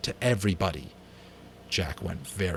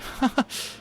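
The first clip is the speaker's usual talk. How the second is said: short laugh. Acted. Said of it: "and laughed".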